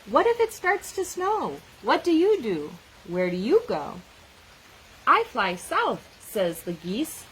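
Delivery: lively picture-book read-aloud with animal voices; reading to children. Acted. Teacher reading a snow book to children, lively read-aloud. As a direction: read it out like story time for a class.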